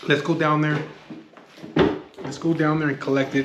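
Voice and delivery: loud, pushy urging. Retold or imitated. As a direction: pump her up to go collect. Urging mom to collect money.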